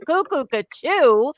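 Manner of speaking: a slow, half-hearted replay of the silly cuckoo; mock your own dorky call; mild self-mocking cuckoo. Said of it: "what a dork I sounded like".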